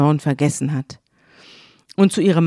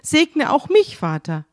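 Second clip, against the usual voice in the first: crying plea; 8 semitones higher, slower than usual. A narrator's reading. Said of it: "weint und schreit und sagt zu seinem Vater".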